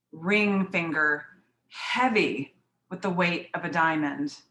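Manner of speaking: measured poem reading with long pauses; poem recitation. Acted. Poet reading to listeners about an offer of marriage, measured recitation. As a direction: set out each image, then pause.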